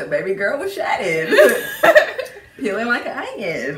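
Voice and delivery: chewing while talking; licking fingers between words; mouth full. Real, not acted. Seen 0: Left woman talks with fingers at lips, eating saucy wings.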